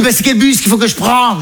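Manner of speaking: mother's voice. Retold or imitated. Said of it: "Elle dit".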